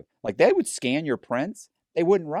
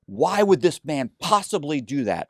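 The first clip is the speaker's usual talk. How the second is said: slow deliberate; 5 semitones higher, 6 dB louder, slower than usual. Retold or imitated. Dragging out his demand to clerk.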